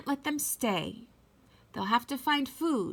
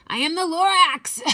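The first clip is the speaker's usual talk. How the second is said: higher, loud angry declaration; Lorax shouting; 8 semitones higher, 8 dB louder than usual. Acted. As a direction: announce yourself furiously. Lorax returns with gripes.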